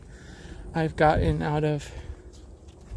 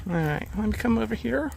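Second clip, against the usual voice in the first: out of breath; 5 semitones higher, faster than usual. Real, not acted. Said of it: "If you can hear my heavy breathing".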